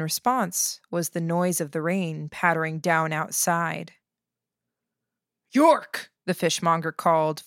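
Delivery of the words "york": high, loud shout of a name; harsh, loud call. A narrator's reading. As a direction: call out roughly for someone out of sight. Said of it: "voice harsh and loud".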